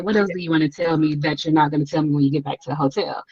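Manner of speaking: unimpressed. Retold or imitated. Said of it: "she's not excited about anything".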